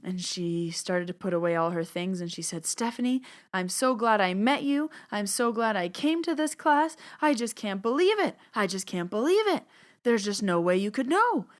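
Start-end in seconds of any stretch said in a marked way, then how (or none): 2.7-11.5 high, gushing thanks from a thrilled student; imitating an overjoyed woman; excited gushing. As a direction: bubble over with disbelief. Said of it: "she had this pep in her step".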